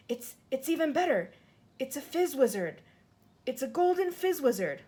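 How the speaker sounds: a giant who can't believe his luck; thrilled giant. Acted. Giant finds a rare dream.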